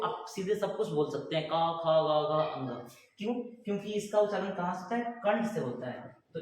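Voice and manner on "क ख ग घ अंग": क, ख, ग, घ sounded straight from the throat; open-mouthed throat consonants. Shown as a demonstration. Teacher showing students throat sounds, क, ख, ग, घ sounded open-mouthed. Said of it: "आप मुंह खोल दो".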